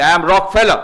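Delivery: loud, proud declaration; big, imposing self-introduction; self-important announcement. Retold or imitated. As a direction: announce your name as if everyone should know it. Acting Rockefeller announcing himself.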